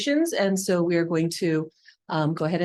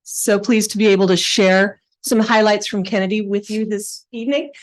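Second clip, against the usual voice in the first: louder, projecting teacher voice; 4 dB louder than usual. Shown as a demonstration. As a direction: address the room like a classroom. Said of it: "use my teacher voice".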